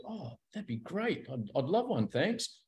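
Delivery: softly voiced mock gratitude; grateful acceptance. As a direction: gently act out a pleased, grateful mate. Acting grateful mate offered coffee.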